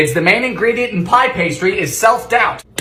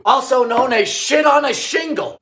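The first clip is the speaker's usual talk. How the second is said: normal talking voice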